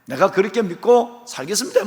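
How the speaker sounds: loud, bright hallelujah response; how Abraham should have responded; ideal joyful amen. Acted. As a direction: answer God with eager faith. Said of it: "이렇게 돼야 되는데".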